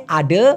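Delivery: "আডে" with a schwa ending; colloquial pronunciation. Shown as a demonstration. Teacher showing the changed ending, colloquial pronunciation. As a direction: say "আডে" as ah-duh. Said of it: "আডাকে বলে".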